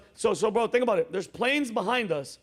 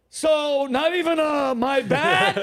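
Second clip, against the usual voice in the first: raised, incredulous questioning; higher, put-out retelling; indignant confrontation; 5 semitones higher, 4 dB louder, slower than usual. Retold or imitated. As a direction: demand an apology in mock disbelief. Acted confrontation with the pilot.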